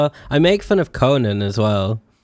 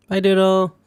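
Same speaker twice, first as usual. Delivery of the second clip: high pet voice; 9 semitones higher, 3 dB louder than usual. Real, not acted. Saying bye to the pet.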